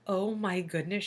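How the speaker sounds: soft stunned gasp of words; quietly taken aback; shocked hush. A narrator's reading. Teacher stunned by broken yardstick, soft dismay. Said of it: "she said".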